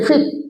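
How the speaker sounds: फिक्स with pressure on its first syllable; stress on first syllable. Shown as a demonstration. Teacher showing students first-syllable pressure, stressed फिक्स. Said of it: "first syllable में अगर आप pressure देते हैं".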